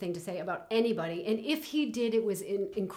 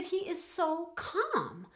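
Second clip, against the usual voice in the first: imitating a friend, pitched much higher and slow; a friend marvelling at his calm, higher and slow; friend's awed voice; 10 semitones higher, much slower than usual. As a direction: quote her friend, higher and drawn out in wonder. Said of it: "She said".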